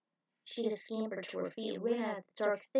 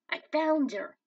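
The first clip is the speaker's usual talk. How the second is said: high, loud announcement; excited discovery; 6 semitones higher, 7 dB louder than usual. A narrator's reading. Son tells Dad he found Cheetah, excited. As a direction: call out that you found her.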